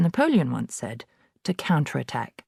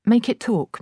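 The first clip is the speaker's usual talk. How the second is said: put-on higher, eager little girl; eager Matilda; 8 semitones higher, 4 dB louder than usual. A narrator's reading. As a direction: push her friend to show the bird. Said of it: "Matilda said".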